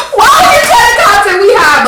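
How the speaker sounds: high-pitched mock outrage; retold indignant complaint, half laughing; pissed-off friends. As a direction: imitate exasperated friends, voice jumping up high. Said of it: "in the background pissed the fuck off".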